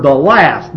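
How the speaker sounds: the last with the weight on last and a falling close; emphasis on last. Shown as a demonstration. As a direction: lean hard on last. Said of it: "And I emphasize that word".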